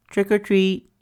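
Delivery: high, loud spooky trick-or-treat; a playful high boo of a greeting. Acted. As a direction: jump out and spook him with it. Franklin surprising his father.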